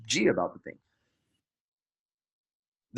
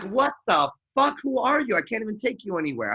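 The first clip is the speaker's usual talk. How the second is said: mock shocked outburst; 7 semitones higher than usual. Shocked boyfriend reaction.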